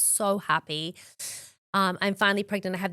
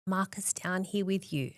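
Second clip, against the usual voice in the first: whisper; 5 dB quieter than usual. Retold or imitated. Retelling the doctor calling her husband in, whispered. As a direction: drop to a hushed whisper. Retelling the moment before diagnosis.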